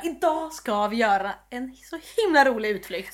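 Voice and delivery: lightly voiced tour guide, slowed down; mock tour-guide pitch, stretched out; låtsad reseledare. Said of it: "jag skulle bli reseledare". (lätt spelad reseledare, lite utdraget)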